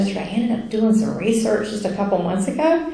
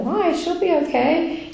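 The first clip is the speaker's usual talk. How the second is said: retold protest; 9 semitones higher than usual. Arguing with Jesus about going back.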